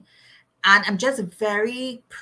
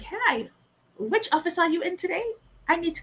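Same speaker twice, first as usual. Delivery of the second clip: urgent eager call; 11 semitones higher than usual. Retold or imitated. Urgently calling her HR director.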